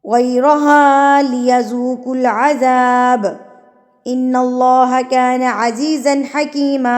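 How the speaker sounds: slow, measured tajweed chant; Quran recitation. Acted. Teacher reciting the verse for students, measured chant. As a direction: recite each phrase slowly with long vowels.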